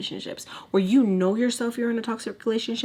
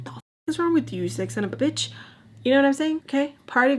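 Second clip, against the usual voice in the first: much higher and fast, a disgusted telling-off; outraged retort; 6 semitones higher, faster than usual. Pretend. Rebuking the boyfriend for asking in a public restroom, much higher and fast. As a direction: spit it out in disgust, pitch jumping up.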